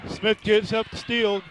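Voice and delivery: brisk live game call; play-by-play. Real, not acted. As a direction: call the action as it happens.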